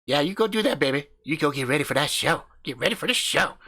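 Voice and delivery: brash country husband hyping up his channel; cocky backwoods YouTuber swaggering through the intro; crude hillbilly husband. Acted. Husband teases wife.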